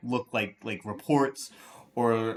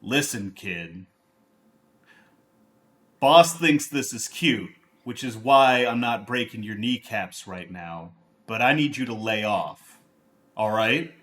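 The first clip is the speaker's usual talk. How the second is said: gravelly thug voice. Acted. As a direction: lean in like a mob heavy warning a kid. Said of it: "a really gravelly voice behind you say".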